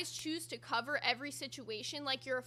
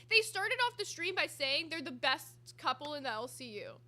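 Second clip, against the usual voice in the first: ordinary talk, nothing marked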